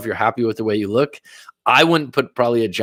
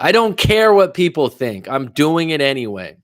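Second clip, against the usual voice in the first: defiant retold quote, pitched up at the start; defiant declaration; 4 semitones higher than usual. Retelling a friend who acts regardless, mildly defiant. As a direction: push out a friend's brash declaration.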